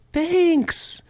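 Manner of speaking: high-pitched forced thank-you; unconvincing thanks. Retold or imitated. Receiver politely thanking someone for an unwanted-seeming gift, unconvincing. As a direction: say thanks as if you secretly hate it. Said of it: "I'm like this".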